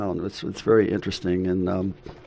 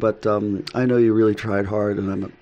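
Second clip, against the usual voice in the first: mock-polite complaint; 2 semitones higher, 6 dB louder than usual. Husband acting out polite egg complaint.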